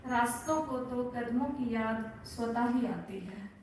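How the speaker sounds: measured verse reading, repeating lines with deliberate pauses; poem recitation. Acted. Poet reading a short poem about plans to listeners, measured recitation. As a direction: recite it phrase by phrase to an audience.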